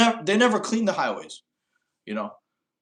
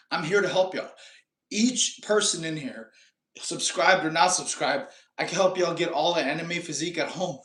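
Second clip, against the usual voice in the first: out of breath. Real, not acted. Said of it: "Sorry, I'm a little out of breath".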